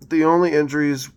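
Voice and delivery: hiccuping mid-sentence; speaking through the hiccups. Real, not acted. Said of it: "sorry, I've got the hiccups".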